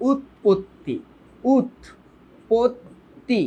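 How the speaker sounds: উৎপত্তি drawn out, syllables pulled apart very slowly; slowly spelled out. Shown as a demonstration. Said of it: "যেমন তোমাকে যদি বলি উৎপত্তি". (উৎপত্তি খুব ধীরে, ভেঙে ভেঙে উচ্চারণ)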